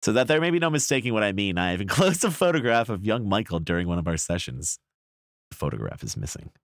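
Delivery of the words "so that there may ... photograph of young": quick, lilting Southern accent. Shown as a demonstration. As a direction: rattle it off like a Southern preacher. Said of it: "in a Southern accent".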